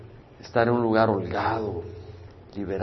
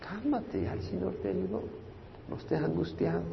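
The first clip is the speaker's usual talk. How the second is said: calming the soul; 7 semitones higher, 6 dB quieter than usual. Retold or imitated. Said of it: "Ya viene otro golpe por acá".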